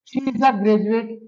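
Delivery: slow, stress on a; slow teaching demo. Shown as a demonstration. Teacher reading the noun example to students, slow. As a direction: lean on the article slowly.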